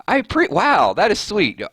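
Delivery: high-pitched, touched "wow". Real, not acted. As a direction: react to a sweet compliment, voice lifting high. Touched by a viewer's comment.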